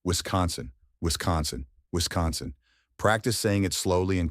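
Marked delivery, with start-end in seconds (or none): 0.0-0.7 Wisconsin as wis-CON-sun, stress on con; model for repeating. Shown as a demonstration. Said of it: "Repeat with me". 1.0-1.7 Wisconsin as wis-CON-sun, stress on con; model for repeating. Shown as a demonstration. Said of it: "Repeat with me". 1.9-2.5 Wisconsin as wis-CON-sun, stress on con; model for repeating. Shown as a demonstration. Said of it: "Repeat with me".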